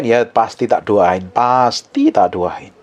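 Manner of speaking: slow, drawn-out promise to pray; lightly voiced weary pastor; slow mock reassurance. Pastor mimicking his own reassurance.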